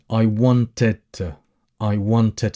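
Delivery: "want" drawn out for emphasis; slow, leaning on "want"; emphatic want. Shown as a demonstration. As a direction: stretch "want" to make it emphatic. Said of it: "So here we're putting emphasis".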